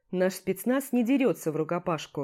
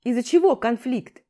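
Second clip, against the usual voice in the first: sharp demand; 4 semitones higher, 7 dB louder than usual. Acted. Commander questioning the men.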